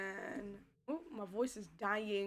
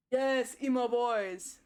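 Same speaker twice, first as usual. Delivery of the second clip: excited cheer; 7 dB louder, slower than usual. Real, not acted. Gushing over favourite characters.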